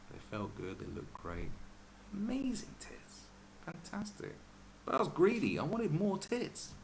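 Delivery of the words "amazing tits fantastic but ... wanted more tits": mock rapture. Real, not acted. Mock rhapsodising about ex.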